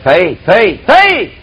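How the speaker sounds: three times faith, the last one leaps high; rising cry of faith. Real, not acted. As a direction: build up to a high, ringing faith. Preacher building up on faith.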